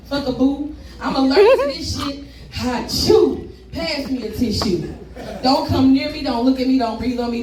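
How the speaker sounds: rhythmic poem delivery with rising punchlines; spoken word performance. Acted. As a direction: perform it like slam poetry.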